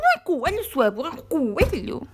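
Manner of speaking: ad voice correcting. Retold or imitated. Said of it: "anúncio do Mini Preço".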